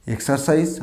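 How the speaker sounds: এক্সারসাইজ as "ek-saar-sais", r sounded; common mispronunciation. Shown as a demonstration. Teacher showing what learners say, এক্সারসাইজ with middle r. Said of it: "এক্সারসাইজ না".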